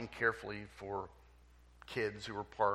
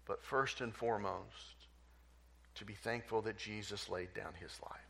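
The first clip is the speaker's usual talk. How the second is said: prayer. Real, not acted. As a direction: pray gently for the congregation. Pastor leads closing prayer.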